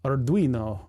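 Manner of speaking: "Arduino" with a lightly rolled R; tentative foreign-style "Arduino". Shown as a demonstration. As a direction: try a tapped R in "Arduino". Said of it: "Should I be rolling the R?".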